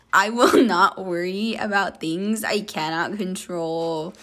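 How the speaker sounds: affirmation read. Acted. Host reading affirmations to the listener, calm and steady. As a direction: read each line like a calm self-help mantra.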